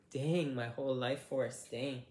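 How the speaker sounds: straining to open a jar; grunting through the effort of opening; opening stuck jar. Real, not acted. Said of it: "it's kinda hard to open".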